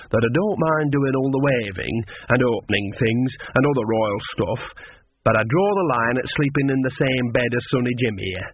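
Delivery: lightly voiced old countrywoman; a hint of a chatty old witch; cheeky Nanny. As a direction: object with homely good humour. Nanny objects to the prince.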